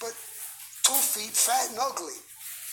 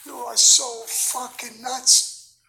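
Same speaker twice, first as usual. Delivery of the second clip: slow, louder, higher-pitched mock scolding; retold exasperated disbelief; 5 semitones higher, 8 dB louder, much slower than usual. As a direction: draw it out, imitating a stunned friend. Retold friend scolding him in disbelief.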